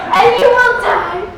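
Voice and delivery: slow, loud, high doom-laden proclamation; hammed-up ringmaster shout; very dramatic. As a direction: proclaim it with huge melodrama. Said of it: "Very dramatic".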